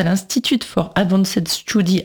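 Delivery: English words said with a heavy French accent; rough French-accented English, self-mocking; clumsy English accent. Real, not acted. Radio host naming a guest's American institute, in clumsy English accent. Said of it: "Mon accent anglais est dégueulasse".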